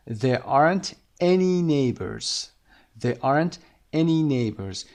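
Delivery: each word slow and clear; slow model sentence. Shown as a demonstration. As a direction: read it slowly for students. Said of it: "اینجا دیگه some نمیگیم". (آهسته و شمرده)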